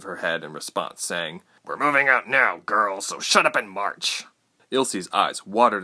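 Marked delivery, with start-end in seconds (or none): 1.6-4.2 slowing, stern soldier's command; gruff order. A narrator's reading. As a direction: order the prisoner to get moving. Soldier barks order after blow.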